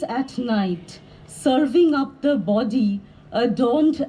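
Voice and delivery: measured poetry reading with pauses after phrases; deliberate, carefully phrased poem reading; poem recital. Acted. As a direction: read it as verse, each line falling to a close. Reads own poem aloud.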